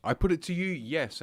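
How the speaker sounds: breathing heavily through the nose; winded after a bong hit. Real, not acted. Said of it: "I need to stop breathing so heavily".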